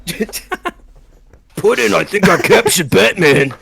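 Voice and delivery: high-pitched, badly faked sidekick voice; Harley Quinn. Batman poses as Harley to fool Joker, shitty high-pitched impression. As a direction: ham up a lousy Brooklyn-accented impression. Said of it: "a really shitty Harley Quinn impression".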